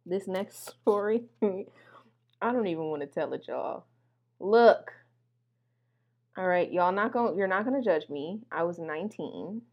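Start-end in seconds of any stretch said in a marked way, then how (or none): 1.4-3.8 slow, soft whisper; a whispered confession to the audience; embarrassed whisper. Real, not acted. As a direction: whisper it like you're ashamed to admit it.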